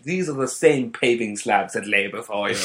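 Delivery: lightly put-on proper guide voice; imitating a grand tour guide; posh tour guide voice. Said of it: "she also had the proper voice".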